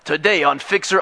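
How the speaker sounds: TV intro slipping into Brooklyn; host a show with a Brooklyn accent; light Brooklyn announcer voice. Acted. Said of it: "can't get away from the Brooklyn accent".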